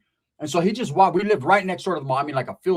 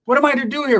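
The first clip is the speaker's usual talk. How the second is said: shocked; 9 semitones higher, 5 dB louder than usual. Retold or imitated. Shocked at cousin's ex.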